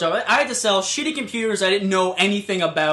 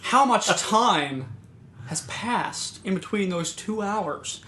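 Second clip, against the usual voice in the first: put-on old guy; 5 dB quieter, much slower than usual. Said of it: "This old guy just walks on in".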